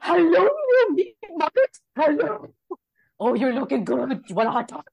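high cooing voice for a dog; baby-talk a friend's pet, high and sweet. Retold or imitated. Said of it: "it's his animal voices".

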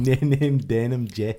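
put-on slow Scottish-accented echo; imitated Scottish accent. Co-host echoing the jacket line, mock Scottish accent. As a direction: mimic the Scottish vowels, drawn out. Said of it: "do a good Scottish accent".

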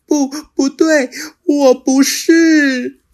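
high, slow, drawn-out denial; little dinosaur refusing. Acted. Little dinosaur refusing the T-rex, high and drawn out. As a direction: shut your eyes and refuse. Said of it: "小梁闭上了眼睛".

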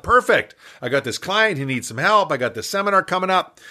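thinking it through with rising delight; retold excited realization; eager inner thought.

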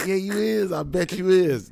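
high, loud teasing taunt; sing-song dare, high and loud; mock taunting. Friends teasing him.

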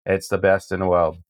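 attempted Boston accent, drifting toward Maine; put-on Boston accent. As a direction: have a go at a New England accent. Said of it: "tell me if the speaker nailed that accent".

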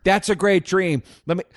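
high mock-sweet voice turning vicious; worst therapist. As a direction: sweetly build up to the curse. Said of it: "he would do that over and over".

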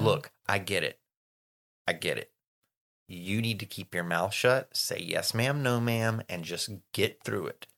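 low, soft, patient lecture; mom's counsel. Retold or imitated. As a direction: imitate a mother calmly talking a teenager down. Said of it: "what my mom had to tell me".

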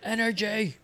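sudden high-pitched squeal; high squeaky energy. Acted. Mocking the word energy.

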